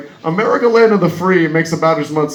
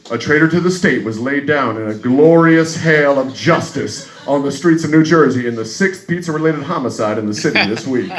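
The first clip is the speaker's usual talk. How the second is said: news report. Acted. News that night reporting a pizza-related homicide, light newsreader manner. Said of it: "And the news that night says".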